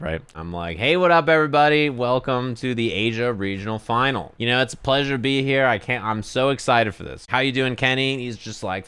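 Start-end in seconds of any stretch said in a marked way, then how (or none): 0.8-8.2 hyped caster intro. Retold or imitated. Caster psyching himself up for the final. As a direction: pump yourself up like a caster on air. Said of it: "trying to psych myself up".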